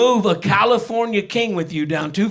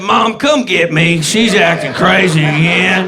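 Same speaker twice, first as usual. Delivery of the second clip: louder, slow call for help; panicked plea; 6 dB louder than usual. Retold or imitated. Grown man loudly pleading with mom to pick him up. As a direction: beg mom to come get you.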